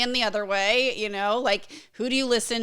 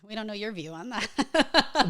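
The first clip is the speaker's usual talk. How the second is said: slow, teasing sarcasm; dry, slowed-down jab at the co-host; sarcastic; slower than usual. Real, not acted. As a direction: feign ignorance, drawn out before a laugh. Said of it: "No, I'm being sarcastic".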